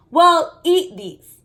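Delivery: put-on mother passing dumplings to the kids; Mom urging. A narrator's reading. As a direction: coax the kids to eat. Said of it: "Mom told us".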